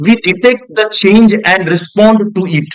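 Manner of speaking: slow, deliberate reading aloud; textbook reading. Shown as a demonstration. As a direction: read each word out slowly for the class. Reads textbook line slowly.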